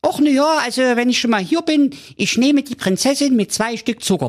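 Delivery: high, fast, squealing put-on voice; delighted prince. Prince eagerly accepts the dragon's offer, high and gleeful. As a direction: gush with glee. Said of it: "jauchzte der Prinz entzückt".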